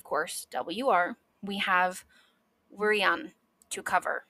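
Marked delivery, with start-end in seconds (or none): 2.8-3.3 "wrian" with W sounded before R; W-R cluster. Shown as a demonstration.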